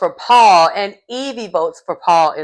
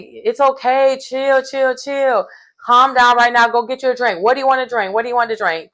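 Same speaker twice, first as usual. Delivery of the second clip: higher-pitched, repetitive mock calming; hasty soothing; 5 semitones higher than usual. Recapper voicing Ross settling Paul down, high hasty soothing. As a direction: imitate a friend trying to settle someone down. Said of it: "So he's like".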